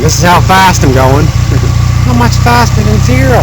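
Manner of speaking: talking around a phone in the mouth; phone held in teeth. Real, not acted. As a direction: speak with a phone clamped in teeth. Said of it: "so I'm gonna put my phone in my mouth".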